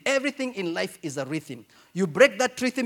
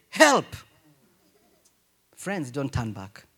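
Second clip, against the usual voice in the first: a cry for help, loud and pitched up; desperate call; 5 semitones lower, 3 dB louder, slower than usual. Retold or imitated. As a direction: shout it like someone going under. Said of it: "If you hear somebody saying".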